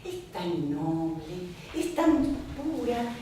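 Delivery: slow, soft loving sigh over wood; a slow, softly adoring praise of wood; tender. Retold or imitated. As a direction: savour every word like a caress. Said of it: "cuando le decía a Basile".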